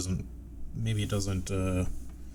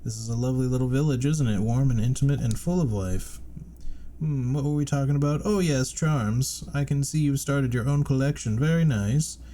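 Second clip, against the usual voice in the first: higher, louder fawning shopkeeper voice; Salubra voice; 5 semitones higher, 5 dB louder than usual. Acted. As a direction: play an eager old charm seller.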